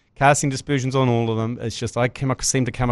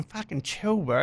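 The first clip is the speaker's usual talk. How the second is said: muttered rebuke; 3 semitones higher, 8 dB quieter, slower than usual. Retold or imitated. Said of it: "Kiwi parents going".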